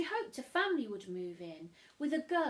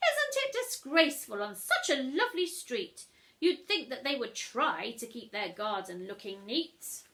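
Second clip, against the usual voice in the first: louder, higher indignant gossip; gossiping neighbour; 3 semitones higher, 6 dB louder than usual. Acted. Missus Bumble gossiping over tea, indignant. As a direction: tut about the scandal.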